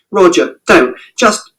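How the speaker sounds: high, urgent cry to stop him; sharp shout. A narrator's reading. Mother shouting at father to stop. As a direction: cut him off before he goes on. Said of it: "And Mother shouted".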